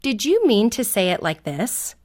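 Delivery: politely modeled question; nice, respectful tone. Shown as a demonstration. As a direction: show a child a respectful way to ask. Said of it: "in a very nice, respectful tone of voice".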